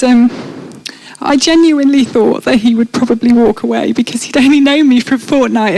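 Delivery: ordinary talk, nothing marked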